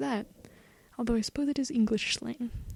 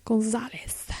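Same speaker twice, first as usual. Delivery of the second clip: whispering. Shown as a demonstration. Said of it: "Don't ask what I'm doing".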